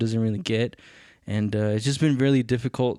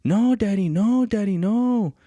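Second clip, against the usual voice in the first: high, loud mock tantrum wail; mimicked child yelling in protest, high and loud; screaming child imitation; 10 semitones higher, 5 dB louder than usual. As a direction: wail it like a little kid begging dad to stop.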